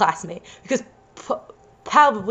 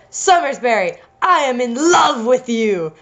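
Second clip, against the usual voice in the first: declared love. Acted. Reader as geography teacher confessing to pupil, mildly hammed-up declaration. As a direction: draw out the confession a little. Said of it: "My geography teacher declared".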